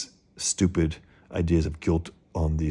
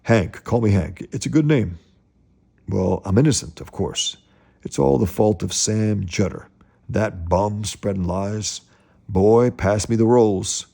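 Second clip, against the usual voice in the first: put-on higher, louder and slow, bossing the boy; overbearing father; 3 semitones higher, 4 dB louder, slower than usual. Father boasting to Murdock then snapping at his son, loud and slow. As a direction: drag out the order to pass the rolls. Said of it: "Mister Jergens".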